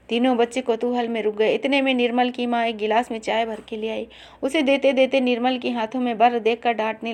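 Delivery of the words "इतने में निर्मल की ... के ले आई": usual speaking voice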